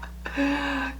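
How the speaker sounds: soft high laugh; a small, high laugh to yourself. Real, not acted. Laughs after asking about yelling.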